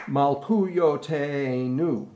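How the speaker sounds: slow, drawn-out Malchuyotenu; rhythm demo with pickup. Shown as a demonstration. Director shows choir the first tag line, slow rhythmic demo. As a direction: stretch the syllables in rhythm after a pickup. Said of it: "got a pickup".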